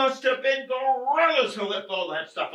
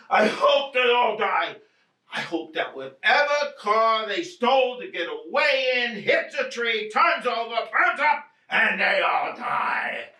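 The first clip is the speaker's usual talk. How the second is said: angry. Acted. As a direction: spit out the curse. Cursing the burglars.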